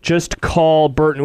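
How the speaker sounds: brisk sponsor read. Acted. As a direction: read the spot like radio. Host reads sponsor ad.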